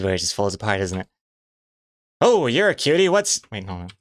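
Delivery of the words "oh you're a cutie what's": high falsetto lady voice, breaking off; squeaky woman's voice, cut short; playful falsetto lady. Pretend. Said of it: "Let's hear your lady voice".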